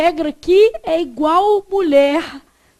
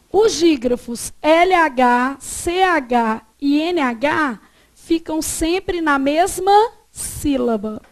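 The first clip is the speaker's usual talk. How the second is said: slow dictation; slower than usual. Shown as a demonstration. Teacher states rule for notes.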